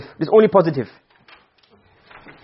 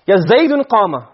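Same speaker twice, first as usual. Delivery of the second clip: slow example; slower than usual. Shown as a demonstration. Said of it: "let's say".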